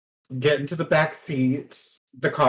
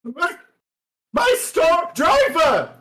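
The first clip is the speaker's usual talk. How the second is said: distraught posh lady; 11 semitones higher than usual. Acted. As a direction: wail like a spoiled socialite robbed of her soap. Lady distraught her show is cancelled.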